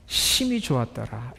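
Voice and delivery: quiet awe; hushed reverent quote. Shown as a demonstration. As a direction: breathe it out gently.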